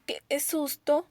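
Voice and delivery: despacio y más agudo, marcando el susto; exclamación de susto. Shown as a demonstration. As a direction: alarga la exclamación con sorpresa. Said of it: "¿qué nos indica? Es un gran susto". (exclamación lenta y alta)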